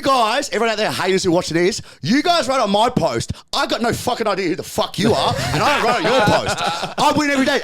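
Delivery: a fired-up taunt at online critics; heated rant at haters. Real, not acted. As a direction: call out the haters with a laughing swagger.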